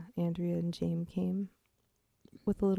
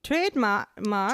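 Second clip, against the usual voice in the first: British attempt; 3 semitones higher, 4 dB louder than usual. Shown as a demonstration. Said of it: "how to say trademark".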